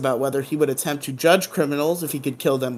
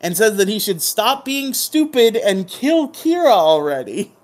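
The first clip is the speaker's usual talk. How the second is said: evil puppet voice; high, loud mock-villain puppet; Mello; 7 semitones higher, 5 dB louder than usual. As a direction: scold as a bossy, evil hand puppet. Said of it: "talking in the evil Mellow puppet voice".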